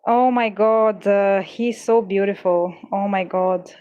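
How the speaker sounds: awed gushing. Real, not acted. Overwhelmed by the card's beauty.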